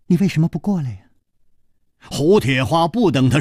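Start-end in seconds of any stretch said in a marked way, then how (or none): 0.1-1.0 mocking question, unhurried and teasing; cold sneer. Stranger luring the angry hero onward, teasing sneer. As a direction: ask it as a sneering taunt. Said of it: "冷笑着说".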